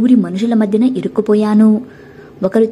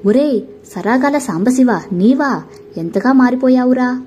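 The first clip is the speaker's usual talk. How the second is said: usual speaking voice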